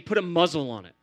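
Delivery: a stern order; firm rebuke. Retold or imitated. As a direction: shut the storm down, hard. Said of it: "more closely translated by Jesus saying".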